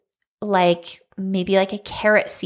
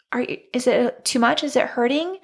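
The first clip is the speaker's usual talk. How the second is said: lightly voiced worried husband, questions rising higher; retold concerned husband; 3 semitones higher than usual. Husband checking on his crying wife, retold concern. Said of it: "he's like".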